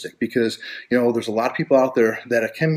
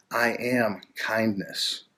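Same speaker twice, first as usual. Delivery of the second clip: affirmation voice; 5 dB quieter, much slower than usual. Shown as a demonstration. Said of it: "Start to talk like this".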